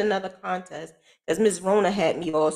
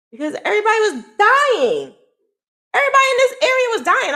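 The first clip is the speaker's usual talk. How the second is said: laughing; 5 dB louder, faster than usual. Real, not acted. Laughing disbelief at the danger.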